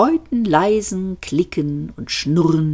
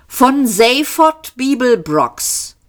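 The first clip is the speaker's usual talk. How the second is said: slow, high robot answer; drawn out, dryly matter-of-fact; 8 semitones higher, slower than usual. A narrator's reading.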